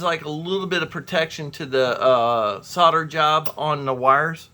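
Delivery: talking between sips of lemonade; a drink still in the mouth; sipping lemonade. Real, not acted. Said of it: "Sorry, I'm drinking, uh, lemonade here".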